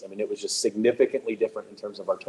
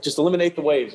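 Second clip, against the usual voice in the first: raised, louder imitation of an insistent director; insistent band director; 5 semitones higher, 4 dB louder than usual. Band director to confused students, insistent. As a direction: imitate a director repeating an order, pitched up.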